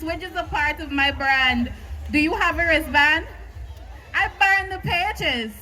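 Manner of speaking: rhythmic slam poem delivery; spoken word poetry. Acted.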